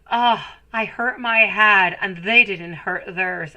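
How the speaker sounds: mother mimicking her child's fake crying, whiny and slow; mock fake crying. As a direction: imitate a child's fake wail. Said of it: "into a kind of a fake way".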